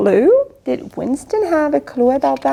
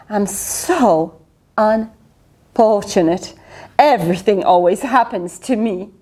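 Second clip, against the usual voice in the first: self-pitying moan; 5 semitones lower than usual. Acted. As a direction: feel very sorry for yourself. Winston's self-pitying refrain.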